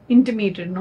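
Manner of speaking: "intimated" said carefully as in-ti-MAY-ted; corrected word. Real, not acted. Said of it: "not intimidated".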